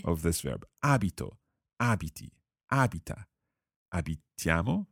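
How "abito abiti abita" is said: Abito, abiti, abita each stressed on the first syllable; Abito, abiti, abita, front-stressed; stress shown. Shown as a demonstration. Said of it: "the stress is on the first syllable".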